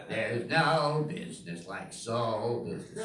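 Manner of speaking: slow Broadway belt, lightly done; lightly voiced Broadway star; a Broadway singer. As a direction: sing it out like a showtune diva. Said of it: "sounded like a Broadway singer".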